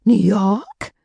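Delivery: a mild mock shriek of surprise; mock scream. A narrator's reading. The party guests exclaim back at Kate, mild mock scream. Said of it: "They all screamed it at her at once".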